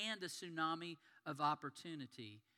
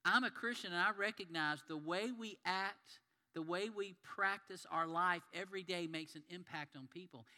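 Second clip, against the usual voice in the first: earnest declaration; 2 semitones higher, 4 dB louder than usual. Retold or imitated. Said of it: "a guy who says".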